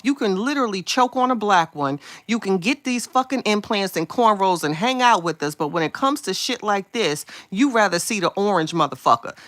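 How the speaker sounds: angry. Real, not acted. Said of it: "just got me hot".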